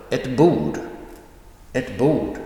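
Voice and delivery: brief ett, punched bord; noun emphasized. Shown as a demonstration. Teacher giving an article-and-noun example, stress on bord. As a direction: clip ett short and hit bord hard. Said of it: "the noun is emphasized".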